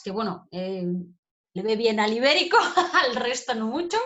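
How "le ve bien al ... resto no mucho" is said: louder, with a laugh breaking in; amused laughing. Real, not acted. Teacher joking to students about the lynx's short tail, amused laughing. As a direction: laugh through the aside.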